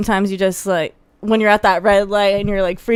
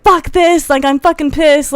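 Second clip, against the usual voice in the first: higher, frustrated burst; mock angry outburst; 7 semitones higher than usual. Voicing a driver stuck at red light, mock anger. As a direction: act out red light rage. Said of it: "saying, like".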